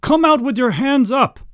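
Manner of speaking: loud, high-pitched police shout; urgent, barked order; snapped command. A narrator's reading. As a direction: order a suspect out, full force. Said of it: "snapped the commander".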